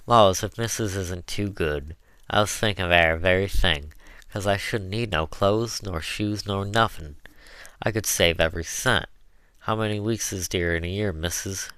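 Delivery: Southern dialect, eager and chatty; a hint of an earnest old servant; lively dialect pitch to the mistress; lightly voiced Chloe, folksy cook.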